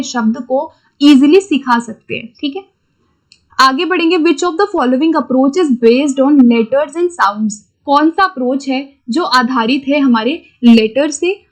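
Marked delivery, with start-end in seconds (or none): 4.2-7.5 reading the exam question out word by word, very slowly. Shown as a demonstration. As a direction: dictate it slowly like an exam paper. Reads exam question aloud slowly. (परीक्षा का प्रश्न बहुत धीरे-धीरे पढ़ना)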